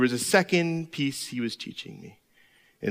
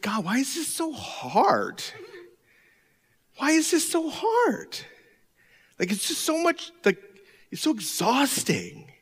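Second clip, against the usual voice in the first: weary lament; 9 semitones higher, 4 dB quieter than usual. Retold or imitated. Weary prayer quoted to God.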